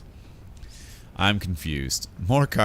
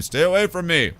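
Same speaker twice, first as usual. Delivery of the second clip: sharp higher, louder warning cry; acted shout; 7 semitones higher, 4 dB louder than usual. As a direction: fling the warning at her as she goes. Sister's parting threat.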